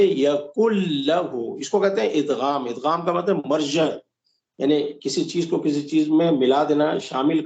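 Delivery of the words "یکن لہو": slower یکن لہو with the نون merged away; merged reading. Shown as a demonstration. Teacher repeating the right merged reading. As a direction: read یکن لہو as "yakullahu". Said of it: "لیکن پڑھیں گے".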